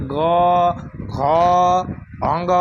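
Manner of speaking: ग, घ, अंग spoken low with a humming buzz in the throat; ग, घ, अंग with throaty vibration, ghosh; buzzing voiced consonants. Shown as a demonstration. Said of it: "घसघसा रहा है".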